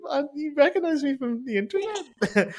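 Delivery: high, slow, amazed question; thrilled stranger knows him; amazed disbelief. Retold or imitated. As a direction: stretch it out in giddy wonder. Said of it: "And I was like".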